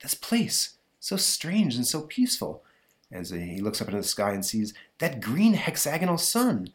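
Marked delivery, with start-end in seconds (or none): 0.0-2.6 higher, awed voice; a touch of hushed wonder; lightly wondering hero. Acted. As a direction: marvel at a strange land. Mark wonders at the new world.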